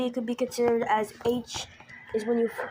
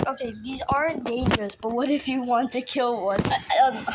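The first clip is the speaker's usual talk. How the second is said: tripping over the words; stuttering; 3 dB louder than usual. Real, not acted. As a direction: stumble and restart the words. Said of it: "I'm stuttering more than the".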